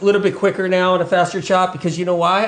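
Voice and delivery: ordinary delivery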